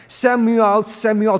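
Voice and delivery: loud, slow call of the name; God calling out. Retold or imitated. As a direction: call the boy's name across the dark, drawn out. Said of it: "and called Samuel as other times".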